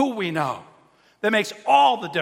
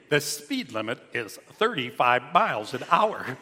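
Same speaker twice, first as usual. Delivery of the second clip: car voice; 4 semitones lower than usual. Retold or imitated. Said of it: "car would say to me".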